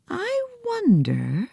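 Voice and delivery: put-on high girl's voice, tearful; small girl weeping with joy at her elephant; Nancy weeping. Little girl tearfully greeting her elephant, high voice.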